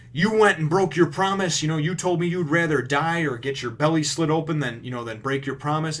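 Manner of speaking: mock furious; angry accusation. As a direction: confront him with betrayal. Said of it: "And she's like".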